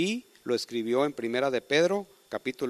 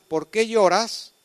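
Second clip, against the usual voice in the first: slow, higher and louder asking; gentle pleading question; 7 semitones higher, 6 dB louder, slower than usual. Acted. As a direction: draw the question out tenderly. Angels question weeping Mary.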